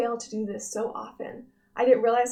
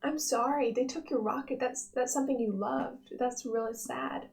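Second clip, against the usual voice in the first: Sadness voice; 5 dB quieter than usual. Retold or imitated. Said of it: "sadness goes".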